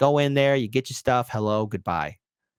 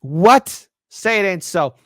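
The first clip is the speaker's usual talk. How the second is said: higher and louder, hammed-up disbelief; mock surprise; 6 semitones higher, 7 dB louder, slower than usual. Real, not acted. Host reacting to the news, mock surprise. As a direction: play it up like shocked.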